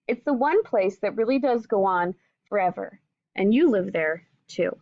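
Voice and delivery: gentle storybook reading voice; reading to children. Acted. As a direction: read it like a picture book to kids. Teacher reads picture book aloud.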